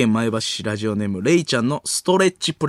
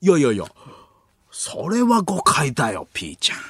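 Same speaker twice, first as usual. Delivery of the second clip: Ueda Shinya's protest. Acted. Comedian calling his accuser by a cute name, coaxing protest. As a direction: swoop up, then drop on the nickname. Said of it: "可愛い名前で呼ぶクリームシチュー、 上田晋也".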